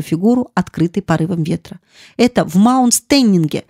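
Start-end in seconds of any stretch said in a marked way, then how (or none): 2.2-3.6 mildly raised, insistent call; urgent cry. Acted. The maid insists the fire is at Mount Stanning, crying out. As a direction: press it on her mistress, half shouting. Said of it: "кричала Феба Маркс".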